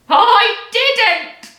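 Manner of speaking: put-on high, gleeful old-woman cackle; cackling. A narrator's reading. Grandma cackling down at the mother, high. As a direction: cackle it with glee. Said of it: "cackled the old woman".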